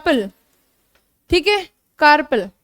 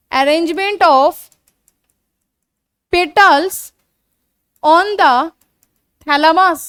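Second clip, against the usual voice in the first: slow dictation; slower than usual. Shown as a demonstration. Teacher dictating definition.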